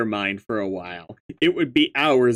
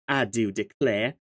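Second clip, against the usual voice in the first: put-on silly Southern accent. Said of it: "your silly accent".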